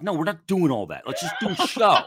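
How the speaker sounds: high, loud, laughing mock protest; laughing retort. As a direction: laugh through the brush-off. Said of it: "I'm like".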